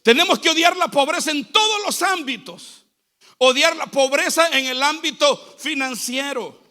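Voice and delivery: projected, emphatic sermon delivery; preaching. Real, not acted. Preacher urging the church to hate poverty, emphatic preaching. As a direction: preach it out to the congregation.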